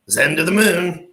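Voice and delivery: high, loud hype shout; sudden loud mock cheer before a laugh. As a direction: cheer it like a crypto shill pumping a coin. Hyping a coin in a joke.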